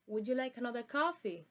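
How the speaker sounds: "Would you like another coffee?" with a fall then a rise on coffee; polite offer, voice dipping then rising at the end; fall-rise intonation. Shown as a demonstration. Teacher's polite example for the class, falling then rising. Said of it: "fall rise intonation".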